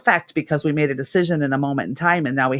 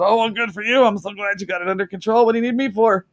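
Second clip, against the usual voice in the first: teasing sarcasm; 4 semitones higher than usual. Retold or imitated. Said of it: "I said".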